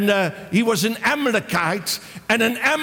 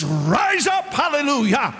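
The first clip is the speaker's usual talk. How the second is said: rousing call; 3 semitones higher than usual. Real, not acted. Preacher rallying the congregation.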